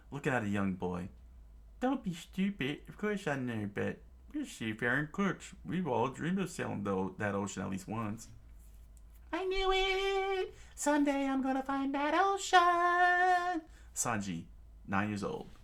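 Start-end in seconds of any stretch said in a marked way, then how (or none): 1.8-8.3 lightly voiced chef. Chef answering the boy. 9.3-13.6 put-on young boy's high excited voice. Young Sanji vows excitedly.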